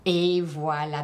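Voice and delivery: breathy whispered praise. Real, not acted. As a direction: drop to a whisper: there you go. Teacher praises student.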